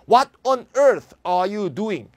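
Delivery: slow, loud, stressing earth; exasperated question. Shown as a demonstration. Teacher demonstrating an exasperated question to class. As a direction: demand it in disbelief. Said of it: "상당히 감정을 드러낸 거죠".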